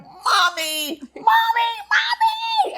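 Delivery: high rising shouts of Mommy; children calling out. Retold or imitated. Children shouting down to their mother from above, high excited calls. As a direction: call out like excited kids in the balcony. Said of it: "And they're like".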